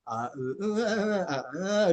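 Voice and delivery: sing-song run of stalling vowels; hesitation fillers. Shown as a demonstration. Teacher mocks students' filler habit, wavering vowel sounds. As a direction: mimic fillers wandering up and down like notes. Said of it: "udah kayak main itu ya".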